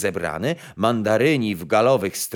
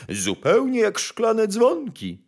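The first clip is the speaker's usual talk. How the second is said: high, drawn-out rapture; admiring court bandmaster; 12 semitones higher, slower than usual. A narrator's reading. Bandmaster admiring croaking frogs, slow high rapture. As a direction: gush slowly in a raised voice. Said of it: "zawołał kapelmistrz nadworny".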